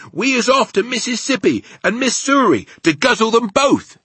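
high, loud bellow; giant's yell. A narrator's reading. Giants galloping past the BFG, yelling. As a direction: yell it out high, full of gusto. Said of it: "they was yelling".

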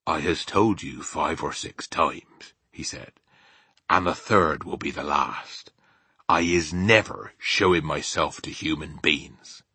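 slow, firm rustic giant; BFG, firm. Acted. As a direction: refuse slowly and firmly as a simple giant.

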